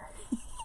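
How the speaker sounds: soft stifled laugh; hushed little laugh; whispered giggle. Real, not acted. Whispered laugh at own hiding.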